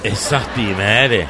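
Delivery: put-on broad provincial Turkish accent; Turkish regional accent. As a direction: answer in homely Anatolian dialect. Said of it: "Şiveyi buraya kadar kıvırabiliyoruz canım".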